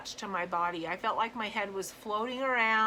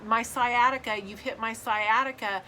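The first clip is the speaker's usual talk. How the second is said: loud pained cry, louder than her own talk; 6 dB louder than usual. Retold or imitated. On the table after the needle hit her sciatica, crying out loudly. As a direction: yelp it out as the needle hits the nerve. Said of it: "and I was crying".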